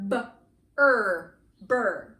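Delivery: b, er as loud separate sounds, then blended into burr; sounded out. Shown as a demonstration. Teacher blending sounds for the class, b, er, then burr. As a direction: punch b and er apart, then join as burr. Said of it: "chunks that we can sound out".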